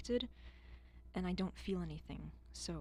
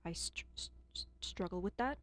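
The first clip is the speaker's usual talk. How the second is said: stutter. Real, not acted. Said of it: "I'm gonna stutter".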